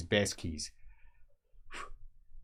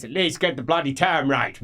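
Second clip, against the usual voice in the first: louder scolding; irritated correction; 3 semitones higher, 5 dB louder than usual. Acted. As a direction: snap at his sloppy wording.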